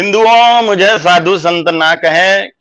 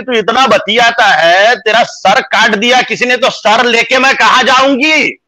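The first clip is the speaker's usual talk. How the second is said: higher-pitched imitation of a worried mother's scolding; 5 semitones higher than usual. Son retells mother's warning about his talking, in mock scolding. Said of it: "मेरी माँ बोली".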